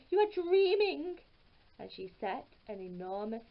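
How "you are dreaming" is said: wife dismissing. A narrator's reading. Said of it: "said his wife".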